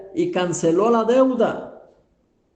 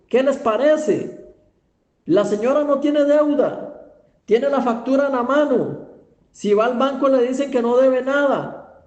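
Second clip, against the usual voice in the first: higher-pitched rhetorical questioning; impassioned preaching; 5 semitones higher than usual. Real, not acted. Preacher asks listeners why the debt-free woman cries, impassioned. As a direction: hammer the questions at a congregation.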